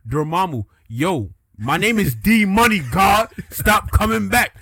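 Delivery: high, loud hood showdown. Acted. Dormammu and Strange facing off, loud hood voice. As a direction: holler it like a hood tough losing patience. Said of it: "let's give them hood voices".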